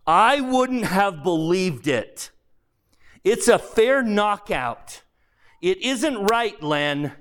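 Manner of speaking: put-on a resentful ghost griping at an old acquaintance; bullish big ghost.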